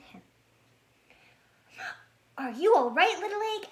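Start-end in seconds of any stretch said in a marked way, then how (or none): 2.4-3.7 lightly voiced bear cub, higher and louder; a small bear calling out in worry; worried little bear. Bear cub calls anxiously to the egg he fell on. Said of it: "asked Fred, scrambling in the mud".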